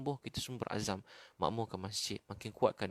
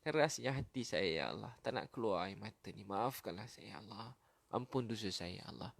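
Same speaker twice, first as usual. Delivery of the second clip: tearful plea. Shown as a demonstration. Preacher models crying to God for hard hearts, tearful plea. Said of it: "Tanda tangan nangis".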